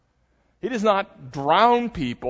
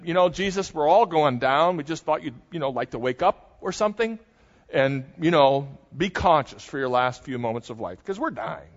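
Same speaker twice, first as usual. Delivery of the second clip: mock casual sarcasm. Disciples sarcastically waking Jesus.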